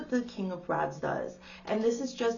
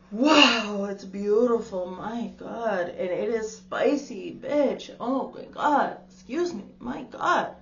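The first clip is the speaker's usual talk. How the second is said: thrilled gasp; 5 dB louder, slower than usual. Real, not acted. Tarot reader gushing over a beautiful card spread, thrilled. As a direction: gush with delight at the spread.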